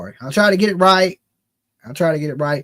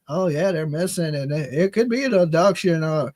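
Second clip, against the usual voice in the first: mock calm. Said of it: "these people that are just so like".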